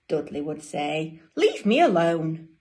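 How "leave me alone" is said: loud, emphatic storybook protest; annoyed penguin. Acted. Dudley to his brothers and sisters, loud protest. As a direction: push them away with volume.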